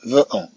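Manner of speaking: فو أون broken apart as "ve", then "on"; split into two sounds. Shown as a demonstration. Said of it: "لا نقول فو أون". (نطق فو أون مقطعين منفصلين)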